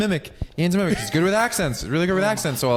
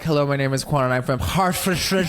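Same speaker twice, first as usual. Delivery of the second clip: a lightly put-on British child's voice; British accent, light imitation; 4 semitones higher than usual. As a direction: introduce yourself like a British kid. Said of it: "And you were like".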